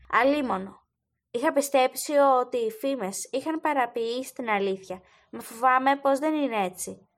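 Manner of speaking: usual speaking voice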